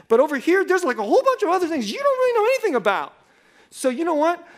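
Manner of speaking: hammed-up righteous indignation. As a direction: lay down the law, self-righteous. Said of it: "now here's how I felt".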